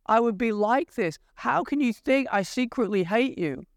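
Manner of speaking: heartbroken Joseph. Retold or imitated. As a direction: plead as a hurt, loving brother. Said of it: "He's like".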